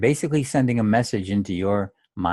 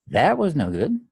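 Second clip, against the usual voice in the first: lighter, raised, detached; 4 semitones higher than usual. Shown as a demonstration. Coach contrasting light self-talk, light. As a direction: say it as a neutral onlooker. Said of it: "Completely different experience".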